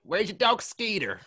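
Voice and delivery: high, loud, slow hick drawl; mock American redneck accent. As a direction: put on a southern yokel voice. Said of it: "whenever anyone's asked me".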